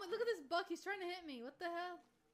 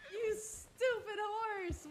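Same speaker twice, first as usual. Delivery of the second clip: angry scold; 4 dB louder, much slower than usual. Real, not acted. Scolding the horse.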